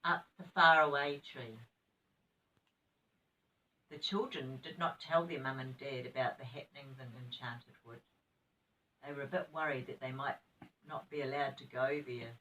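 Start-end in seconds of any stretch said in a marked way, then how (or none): 3.9-12.3 gentle bedtime story reading; reading to children. Acted. Nana reading story aloud.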